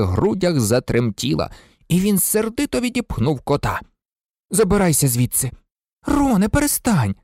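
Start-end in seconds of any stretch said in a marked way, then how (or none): 4.5-5.5 a touch of angry snap at the cat. Acted. Ron shoves the cat away. 6.1-7.1 much higher angry rebuke. A narrator's reading. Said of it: "розгнівалася Герміона".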